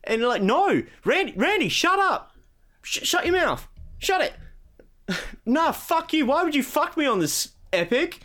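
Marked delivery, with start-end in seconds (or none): 0.4-5.2 much higher, hammed-up shushing; mock exasperated Epic. Epic telling Randy to shut up. 5.4-8.2 much higher, whiny laughing protest; mock betrayed Randy.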